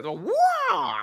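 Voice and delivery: high squeaky wah; mock wah cry. Imitating X-Pac's catchphrase to the co-host, squeaky wah. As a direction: yelp it like a cartoon.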